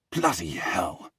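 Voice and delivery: slow, whispery curse; muttered curse. Acted. Henry cursing at his stubborn brother, muttered curse. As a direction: curse under the breath. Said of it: "Henry curses".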